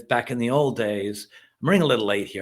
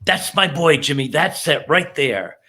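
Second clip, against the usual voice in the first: gloating demon; 3 semitones higher, 6 dB louder than usual. Retold or imitated. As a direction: crow it like a delighted demon. The demon just jumps up and goes.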